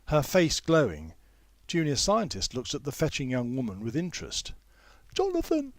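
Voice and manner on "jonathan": shriek of joy. A narrator's reading. Mei Yi greets Jonathan joyfully, mock shriek. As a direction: cry out his name in delight. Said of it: "she shrieks".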